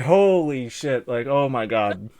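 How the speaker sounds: slow, stretched-out mock amazement; retold astonishment. Diner retelling the first sugary bite, drawn-out amazed reaction. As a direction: drag out every word, stunned.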